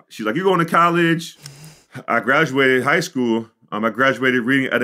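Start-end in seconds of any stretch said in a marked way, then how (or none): 0.4-1.4 surprised delight. Retold or imitated. Mom echoing her son's news, delighted and surprised. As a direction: ask it back in happy shock. Mom reacting on drive home.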